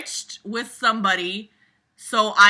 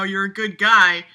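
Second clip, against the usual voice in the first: a light, louder mock of a patronising teacher; lightly voiced smug teacher nagging a student; 5 dB louder than usual. Mocking Mister Hanson talking to James, lightly voiced smug teacher. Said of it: "excuse for Mister Hanson to tell James, like, you know".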